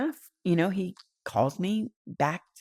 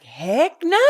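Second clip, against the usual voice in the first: high, loud "heck no"; mock outcry; 7 semitones higher, 7 dB louder than usual. To Bree's late call, a loud joking refusal. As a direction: blurt it out in a loud, higher refusal.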